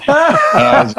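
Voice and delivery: high-pitched burst of laughter through the words; amused, laughing as you talk; cracking up. Retold or imitated. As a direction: crack up while telling it. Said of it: "started cracking up".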